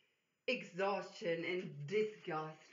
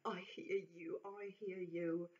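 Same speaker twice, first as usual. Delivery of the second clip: reassuring; 6 dB quieter than usual. Acted. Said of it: "taps her friendly on the back".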